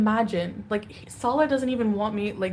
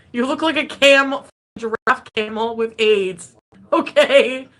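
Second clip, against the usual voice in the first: laughing through the insult; 2 semitones higher, 7 dB louder than usual. Real, not acted. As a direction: crack up mid-line. Laughs at her own insult.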